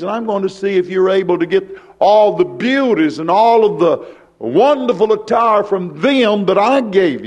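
rhythmic sermon cadence; preaching. Acted. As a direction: preach it out to the congregation. Preacher in full flow.

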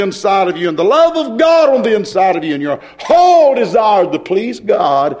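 driving pulpit cadence with swelling key words; fervent preaching. Acted. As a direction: press the argument on the congregation. Preaches at full force.

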